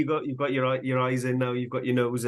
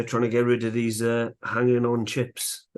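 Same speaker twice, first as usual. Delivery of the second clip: huffing and puffing; breathless from carving effort; out of breath. Real, not acted. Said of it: "I'm huffing and puffing here".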